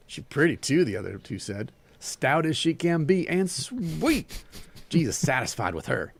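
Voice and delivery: animated story reading with Southern dialogue; story narration. A narrator's reading. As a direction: read the tale aloud, giving each figure life.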